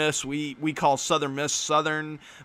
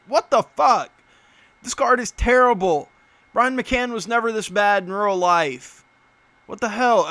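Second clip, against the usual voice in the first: loud, higher, real indignant rant; angry outburst; 5 semitones higher, 6 dB louder than usual. Real, not acted. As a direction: blow up at a terrible card. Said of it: "I'm pissed off now".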